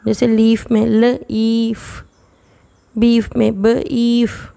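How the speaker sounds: slow, stretched ल ईफ and ब ईफ; sounding out. Shown as a demonstration. Teacher stretching long vowel for students, slowly. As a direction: draw out the long ई in ईफ. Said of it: "long ई की sound है ई".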